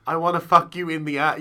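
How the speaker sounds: said out loud. Shown as a demonstration. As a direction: say wanna like you mean it out loud. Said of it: "and then saying out loud".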